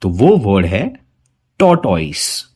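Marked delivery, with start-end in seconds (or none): 1.6-2.5 टॉर्टोइस with a full ओइस ending; the mistaken टॉर्टोइस, ओइस fully sounded; wrong take. Shown as a demonstration. Teacher showing students a common mistake, mock wrong. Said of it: "नहीं, ये गलत उच्चारण है".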